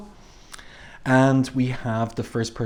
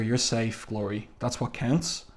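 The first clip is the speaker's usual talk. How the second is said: softly voiced comfort; gentle acted reassurance; reassuring; 6 dB quieter than usual. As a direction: soothe a frightened friend, voice dropped. Foggy comforts Glory after break-in.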